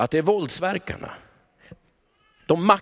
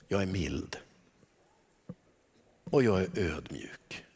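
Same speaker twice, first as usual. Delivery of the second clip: much softer, lower and hushed; soft Jesus; 11 semitones lower, 9 dB quieter than usual. Acted. Jesus revealing himself to the congregation, tender hush. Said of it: "så vill han plötsligt stanna och säga".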